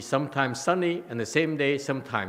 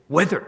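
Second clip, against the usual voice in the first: "whether" punched loud and higher; stress on whether; 5 semitones higher, 9 dB louder than usual. Shown as a demonstration. Teacher giving an example of emphasis, "whether" stressed. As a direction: hit the single word "whether" hard. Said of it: "is for emphasis".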